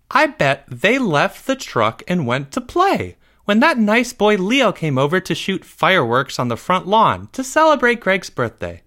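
high-pitched, sing-out mom voice; mother's voice. A narrator's reading. Mother guessing where boys went, high-pitched voice. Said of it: "the voice that used to belong to Greg's mother".

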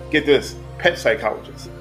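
usual speaking voice

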